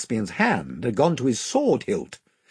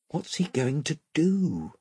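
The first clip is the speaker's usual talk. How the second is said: soft voiced whisper; 4 semitones higher, 6 dB quieter than usual. A narrator's reading. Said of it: "whispered Eustace to Edmund".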